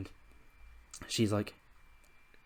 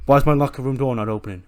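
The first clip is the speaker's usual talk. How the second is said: loud, fast, annoyed demand; angry demand; 2 semitones higher, 7 dB louder, faster than usual. Acted. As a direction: snap it out in frustration. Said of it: "He's like".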